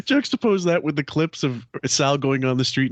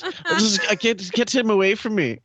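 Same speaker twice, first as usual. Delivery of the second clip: imitating a horrified woman through laughter; retelling a woman's disgust, giggling; laughing mock plea; 7 semitones higher than usual. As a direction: beg to be taken away, laughing. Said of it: "She goes".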